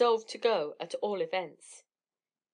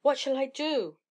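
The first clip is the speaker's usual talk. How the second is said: higher, panicky question; frightened plea; 5 semitones higher, 3 dB louder than usual. A narrator's reading. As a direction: ask it in fright, voice rising. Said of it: "trembling all over".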